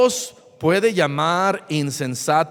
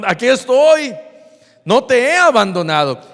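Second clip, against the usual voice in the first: Jesus reassuring; 2 semitones higher, 5 dB louder than usual. Acted. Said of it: "¿Y qué diría el Señor Jesús?".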